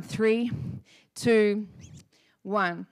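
slow countdown with long gaps; counting down. Retold or imitated. Driver gripping the wheel before turning, tense spaced countdown. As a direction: count down, pausing before each number. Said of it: "I was counting down".

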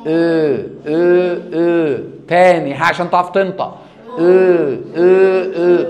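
"او" repeated loud and round; loud o drill. Shown as a demonstration. Teacher drills "او" loudly with the class. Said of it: "اعمل كده".

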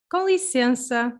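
"Com licença" with a nasal com and a nasal en; Portuguese model phrase. Shown as a demonstration. Teacher repeating the phrase for learners, nasal. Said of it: "I'm gonna say this, these words again".

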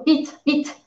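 vite, vite snapped out high and falling, impatient; hurried falling tone. Shown as a demonstration. Teacher shows the hurried fourth tone to a student. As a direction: rush someone with a clipped, falling vite, vite. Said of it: "que tu es en colère ou tu es pressé".

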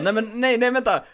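flustered protest. Retold or imitated. Retold flustered reaction.

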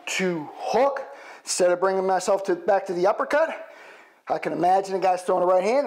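calling combos mid-punch; hitting a punching bag. Shown as a demonstration. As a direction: count punches while throwing them. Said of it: "we can add to it".

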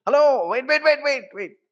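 high, loud shout after someone leaving; calling out. Retold or imitated. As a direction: call loudly after a guest walking away. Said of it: "గబాల్ని పరిగెట్టుకుని అరుస్తాం కదా". (వెళ్ళిపోతున్నవాళ్ళను ఎత్తైన స్వరంతో బిగ్గరగా పిలవడం)

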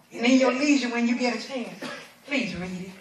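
soft, grave pastoral appeal; hushed solemn preaching. Real, not acted. Preacher gently warning parents about disobedient children, hushed and solemn.

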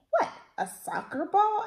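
put-on a confused young prince asking. A narrator's reading. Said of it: "asked Rupert".

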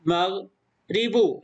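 مغرب stretched very slowly, the غ clearly sounded; teacher modelling مغرب slowly; very slow model reading. Shown as a demonstration. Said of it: "نجرده ونقول".

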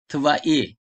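Tvai with stress on the final ai; Tvai, stress falls on the last syllable; stress at the end. Shown as a demonstration. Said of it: "vurgu çünkü sonda".

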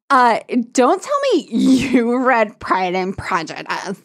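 slow, hammed-up coy line; cheesy flirt. Friend mocking Ash's cheesy flirting, slow and coy. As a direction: ham up the cheesiness. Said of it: "that's when it gets cheesy".

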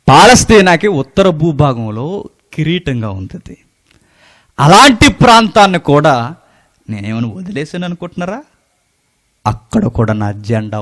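boastful roar. Retold or imitated. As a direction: proclaim it like a boasting conqueror. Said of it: "అని రంకేస్తున్నాడు". (గర్వంగా గట్టిగా గర్జిస్తూ)

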